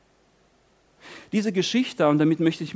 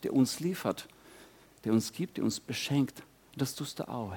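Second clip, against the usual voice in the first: prayer. Acted. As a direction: speak humbly to God in prayer. Leads the closing prayer.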